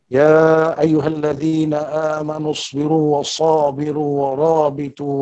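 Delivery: melodic Quranic chanting; Quran recitation. Acted. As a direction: recite the verse in tajwid.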